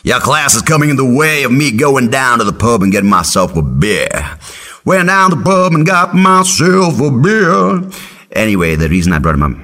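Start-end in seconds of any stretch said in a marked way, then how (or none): 0.0-4.4 lightly voiced old professor, grumbling; a hint of a boozy old professor griping about class. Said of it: "he's like". 4.8-7.8 high, slow, singsong narration. Pretend. Comic singsong punchline about the professor at the pub.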